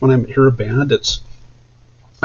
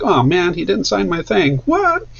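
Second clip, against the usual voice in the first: higher, mock-indignant whine; joking complaint about an unsigned picture, higher and hammed-up; mock outrage; 8 semitones higher than usual. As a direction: pretend to be hurt and shocked. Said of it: "just kinda joking around like".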